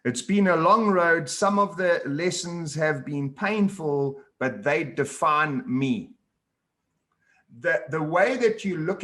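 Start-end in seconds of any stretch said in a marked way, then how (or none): 0.1-6.1 reading aloud. Acted. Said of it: "I wanna read something that you mentioned".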